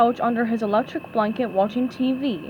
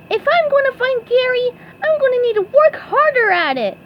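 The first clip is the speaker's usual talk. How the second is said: much higher, loud resolute voice; full of fresh resolve; determined SpongeBob; 13 semitones higher, 6 dB louder than usual. Acted.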